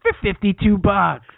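hammed-up burger huckster; Guy Fieri. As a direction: drag out each item like a hyped TV host. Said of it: "Guy Fieri's thirty dollar Burgers".

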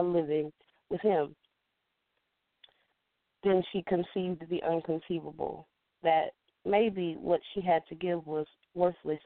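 measured poetry recitation with deliberate pauses; rhythmic telling, leaning on the rhymes; spoken-word poem. Shown as a demonstration. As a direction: perform it as a spoken-word piece, phrase by phrase.

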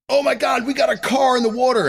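high, loud hammed-up panic call; mock TV shout. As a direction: yell it like a hammy TV firefighter. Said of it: "I like it when they go".

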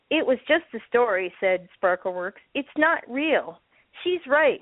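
put-on reading a story to children; gentle storybook read-aloud; story narration. A narrator's reading. Reads a picture book aloud.

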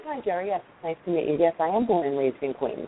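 professional tone. Shown as a demonstration. Candidate greeting recruiter in toned-down professional voice. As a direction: keep it polished and neutral. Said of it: "in a more professional tone".

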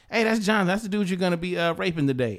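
breezy, offhand introduction; very casual. Retold or imitated. Director casually introducing a castmate to the actor, very casual. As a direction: toss it off like small talk. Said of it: "just very casually goes".

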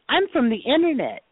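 high, smug mock voice; mock Mercedes. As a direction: squeak it out like a proud airhead. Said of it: "She goes".

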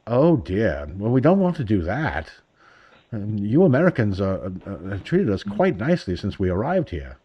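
mild put-on British bobby accent; understated British accent, courteous and hesitant. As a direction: lightly imitate a polite London policeman, a little softly. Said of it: "really, really cool accent".

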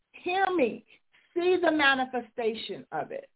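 high, urgent preaching cry; fervent exhortation. Real, not acted. Preacher urging listeners, high and fervent. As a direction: plead with them to see it.

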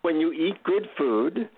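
put-on slow guru with a light Indian accent. Guru teaching a visitor gratitude, slow Indian accent. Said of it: "deep Indian accent".

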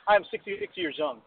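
high-pitched mock proud senior; imitated older person. Mocking people over sixty-five announcing age, high mock voice. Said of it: "it's like sixty-six".

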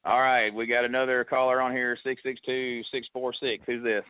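upbeat call-in show host; radio host. Acted. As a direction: take the next caller like a DJ.

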